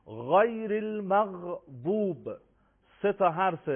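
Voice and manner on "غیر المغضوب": slow, drawn-out غیر المغضوب with heavy غ and ض; higher, slow Quranic demonstration of غیر المغضوب; heavy articulation. Shown as a demonstration. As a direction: recite غیر المغضوب deliberately, thickening غ and ض.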